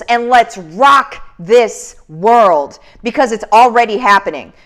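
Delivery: rousing pep talk. Real, not acted.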